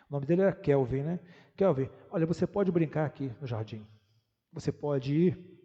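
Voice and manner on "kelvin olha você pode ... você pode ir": gentle father. Acted. Father kneeling to his three-year-old, gently instructing. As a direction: explain patiently to a small child.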